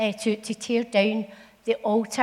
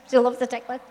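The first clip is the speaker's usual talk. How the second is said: says it again through a laugh; faster than usual. Real, not acted. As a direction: repeat it, giggling.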